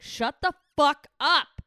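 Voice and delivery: mock-furious yell, loud and high; slow, punched-out shout easing into a laugh; Laura screaming. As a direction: imitate an exasperated friend screaming at the radio. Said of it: "she's literally screaming right now".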